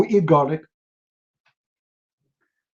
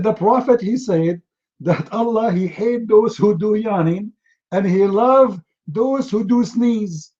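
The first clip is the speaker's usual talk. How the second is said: lifted, slow solemn preaching; hammed-up grave preacher; mock solemn sermon; 4 semitones higher than usual. Mock solemn quoting the hadith.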